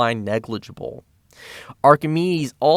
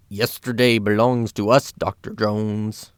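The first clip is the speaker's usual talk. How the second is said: put-on poor German accent. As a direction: attempt a gloating villain's German accent, not convincingly. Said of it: "I can't do the German accent".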